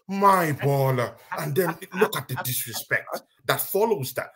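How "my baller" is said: slow, drawn-out mock quote; mocking echo of someone's praise; mimicked quote. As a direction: drag both words out, mimicking him. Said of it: "he just called Mano".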